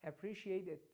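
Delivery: "Appreciate it" joined into one word; linked "Appreciate it", no gap before IT; quick linked pronunciation. Shown as a demonstration. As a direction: run "Appreciate" straight into "it".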